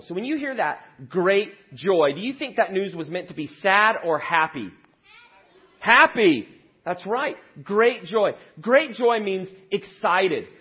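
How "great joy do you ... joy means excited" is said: put-on high, loud excited kids-show voice; kids show host. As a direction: sell the joy to the children.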